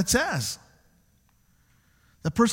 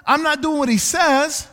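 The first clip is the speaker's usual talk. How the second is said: mock hypocrite; 7 semitones higher, 5 dB louder than usual. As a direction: ham up the two-faced churchgoer. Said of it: "The person says".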